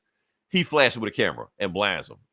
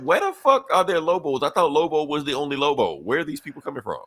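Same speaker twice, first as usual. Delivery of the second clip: high, startled outburst; mock shocked disbelief; 4 semitones higher than usual. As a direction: play them stunned and baffled. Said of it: "they're just shocked like that".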